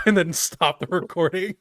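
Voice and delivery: cracking voice, laughing; voice cracking up an octave. Real, not acted. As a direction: voice breaks upward mid-laugh. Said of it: "my voice just cracked".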